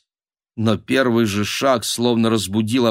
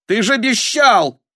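high, accusing outcry; indignant reproach; 13 semitones higher, 4 dB louder than usual. Acted. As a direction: throw the broken promise at him. Упрёк за нарушенное обещание. (возмущённый высокий выкрик)

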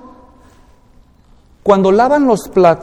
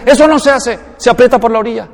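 higher-pitched fussy correction; mock scolding; 3 semitones higher, faster than usual. Toothpaste user correcting the other one, mock scolding. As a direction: correct them with mock indignation. Acted quarrel over squeezing toothpaste.

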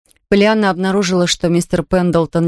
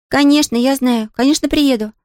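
put-on higher, bright girl's voice, nodding happily; eager little girl; 6 semitones higher than usual. A narrator's reading. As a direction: play a delighted young girl. Pollyanna answers eagerly.

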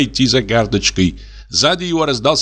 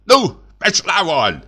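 a mild, higher mock shout at the dog; sudden shout; 8 semitones higher than usual. A narrator's reading. Lieutenant suddenly drives the dog away with a mild shout. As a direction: shoo the dog off sharply. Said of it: "крикнул вдруг поручик".

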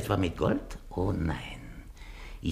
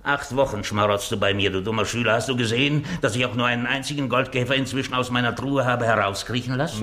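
louder, mocking rebuke; scolding; 5 semitones higher, 4 dB louder, faster than usual. Master scolding his parasite servant, mocking. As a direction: scold the dull pupil.

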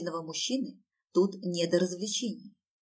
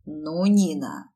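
slow angry growl at name; 3 semitones lower, 4 dB louder, much slower than usual. Acted. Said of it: "прорычал".

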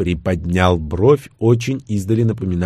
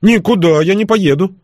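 stubborn refusal; 9 semitones higher, 4 dB louder than usual. Acted. Igor refuses, clutching the chair.

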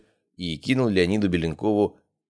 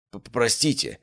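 stumbling, unsure apology; hesitant stammer; 4 semitones higher than usual. Acted. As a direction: falter on the first sound. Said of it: "замялся Леонид Беленков".

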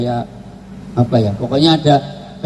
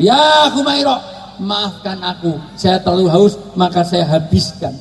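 affectionate apology; 3 semitones higher than usual. Acted. Husband apologising to his wife for drinking it all, affectionate call. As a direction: call out fondly, then settle into apologising. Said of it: "buat hubungan yang mesra itu".

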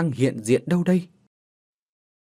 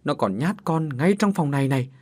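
tearful telling; 3 semitones higher than usual. Acted. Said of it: "vừa khóc vừa kể".

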